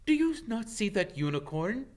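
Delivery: loud, high bellow. Acted. Firenze rearing up, bellowing at Bane over the dead unicorn. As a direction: roar it at him in outrage. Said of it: "Firenze bellowed at Bane".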